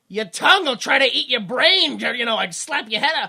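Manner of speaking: Christopher Walken. Retold or imitated. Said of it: "he was like".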